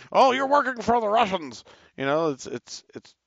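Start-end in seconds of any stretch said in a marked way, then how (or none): 0.1-1.6 high, loud sarcastic mock accuser; mocking accusation. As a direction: sneer it like a paranoid accuser. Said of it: "It's like".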